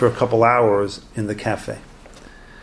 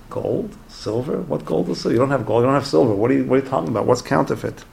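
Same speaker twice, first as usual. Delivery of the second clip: mock-puzzled wife, rising one-word queries into quick protest; baffled questioning; 2 semitones higher, faster than usual. Wife to crying husband about his counterfeit gold, baffled.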